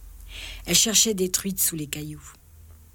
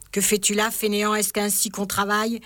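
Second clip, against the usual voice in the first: a touch of a shout, only slightly raised; mock shouting; 3 semitones higher than usual. Fat uncle catching his nephew idle by the river, mild mock yell. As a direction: scold the idle boy like a big brute, understated. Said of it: "cria-t-il en levant son bâton".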